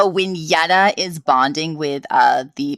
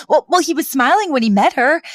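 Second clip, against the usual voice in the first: imitating Fran; 9 semitones higher, 3 dB louder than usual. Voicing Fran defending herself.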